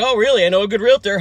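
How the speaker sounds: very high, loud eager salesman; mock eager pitch. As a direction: pounce on the chance to list the house. Retold eager realtor pitch.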